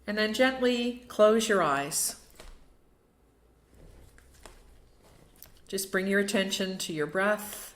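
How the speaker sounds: unhurried meditation guide with long pauses; short calming cues, each left to settle; guided meditation. Acted. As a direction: ease listeners into stillness, phrase by phrase.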